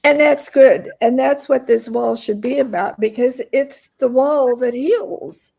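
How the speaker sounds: emotional, voice still teary; pushing through the emotion; after crying. Real, not acted. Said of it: "I'm very teary today".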